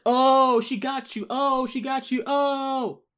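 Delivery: high, loud mock cheering; mocking gleeful fans. Host mimicking debate fans, high, loud mock glee. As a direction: ham up a gleeful gotcha. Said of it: "Some folks are like".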